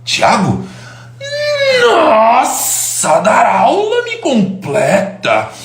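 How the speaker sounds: high, drawn-out theatrical passion; hammed-up impression of an enthusiastic teacher; Clóvis de Barros. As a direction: swell and stretch it like a melody. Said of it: "Ele fala com muito entusiasmo".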